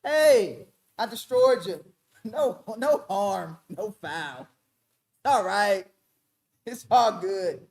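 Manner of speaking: slow, falsely soothing oppressor voice; the oppressor shrugs off the harm, slow and falsely soothing; mock Antiochus. Mocking Antiochus as he brushes off the damage, slow. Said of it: "don't that sound like Antiochus".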